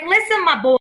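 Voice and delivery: put-on light New York accent, slightly lifted. Medium relaying a client's late grandmother, New York accent. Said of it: "talk with the New York accent".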